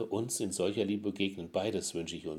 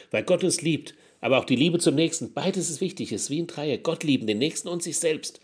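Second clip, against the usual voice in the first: emphatic preaching; 7 semitones higher, 6 dB louder than usual. Acted. Preacher raising voice on key point.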